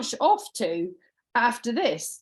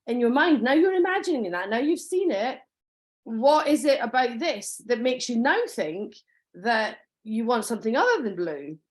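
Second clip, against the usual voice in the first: said with a smile; 2 semitones higher than usual. Shown as a demonstration. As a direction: ask it sweetly with a smile, never pushy. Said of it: "you say it with a smile on your face".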